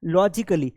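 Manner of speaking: "लॉजिकली" as lo-ji-kuh-li; short "kuh" in "लॉजिकली"; correct pronunciation demo. Shown as a demonstration. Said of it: "sound सिर्फ क ही निकलता है". ("लॉजिकली" में छोटा "क")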